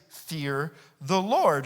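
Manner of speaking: slow, weighty command; slow solemn. Shown as a demonstration. Preacher reading God's command slowly to the church. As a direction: lay each word down heavily. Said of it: "we read this phrase".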